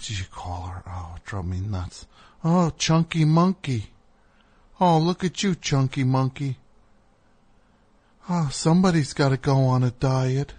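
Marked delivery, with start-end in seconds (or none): 2.4-10.5 lightly mocked baby-talk to a dog. Groomer teasing an overweight dog, lightly imitated dog voice. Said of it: "the dog voice".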